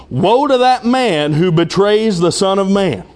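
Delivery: slow, weighty warning; measured, deliberate pronouncement of woe; solemn warning. Acted. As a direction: draw it out as a grave warning. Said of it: "he gives a warning".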